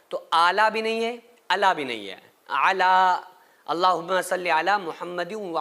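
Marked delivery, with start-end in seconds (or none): 2.6-2.9 अला with the long madd vowel stretched; elongated ala. Shown as a demonstration. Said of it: "अला के ऊपर मद भी है". (अला में मद खींचकर)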